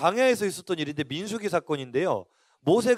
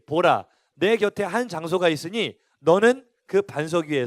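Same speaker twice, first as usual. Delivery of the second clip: scripture reading; 4 dB louder than usual. Acted. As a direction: read the Bible passage aloud with weight. Congregation reads scripture aloud. (힘주어 천천히 읽는 성경 낭독)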